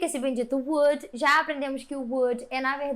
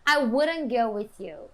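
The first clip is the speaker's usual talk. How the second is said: slower, firm "I wouldn't go with you", falling; firm negative; 3 semitones lower, slower than usual. Shown as a demonstration. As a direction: say "I wouldn't go with you" firmly, no lift at the end. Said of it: "então você fala mais firme". (negação firme, "I wouldn't go with you" descendente)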